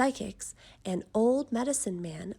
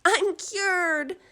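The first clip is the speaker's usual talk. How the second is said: much higher, loud cheer; joyful shout; 9 semitones higher, 7 dB louder than usual. A narrator's reading. Camilla celebrates being cured, high joyful shout. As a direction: shout it in pure relief. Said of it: "she shouted".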